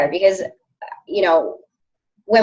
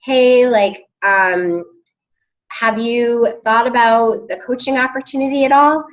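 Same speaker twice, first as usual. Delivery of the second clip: tentative, lightly raised pitch; hesitant ask; 4 semitones higher than usual. Shown as a demonstration. Coach demos the timid way to pitch coaching, tentative. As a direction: ask as if afraid of a no. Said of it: "It isn't".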